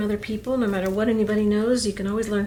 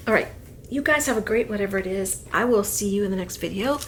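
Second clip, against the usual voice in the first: usual speaking voice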